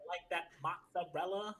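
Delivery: put-on drawn-out East Coast Italian accent; hammed-up Italian-American, stretching the words; mock Italian-American accent. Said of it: "apparently I talk like this".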